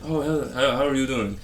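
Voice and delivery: an imitating, overdone Asian accent on the greeting; exaggerated Asian accent. TikToker mocking his dad, exaggerated Asian accent. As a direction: ham up a dad's Asian accent. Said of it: "he might sound like".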